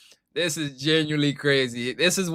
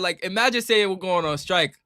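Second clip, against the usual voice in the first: usual speaking voice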